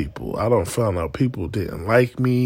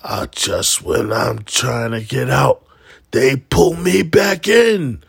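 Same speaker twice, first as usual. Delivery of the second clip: Al Pacino impression; 2 semitones higher, 5 dB louder, slower than usual. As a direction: swell into the famous line. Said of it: "when Al Pacino goes".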